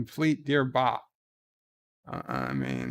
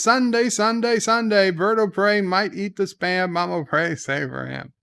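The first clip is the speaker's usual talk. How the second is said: monster truck announcer; 5 semitones higher than usual. Acted.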